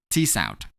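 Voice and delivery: crisp isolated T, pitch dropped low; demonstrating the T sound. Shown as a demonstration. Teacher models the past-tense ending for students, crisp T. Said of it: "I'm gonna pronounce this sound as T, much louder than usual".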